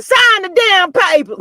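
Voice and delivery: high, drawn-out retold demand; mock exasperated order. Quoting wife about divorce papers, mock exasperated order. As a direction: stretch it out like a fed-up wife. Quotes Mel ordering him.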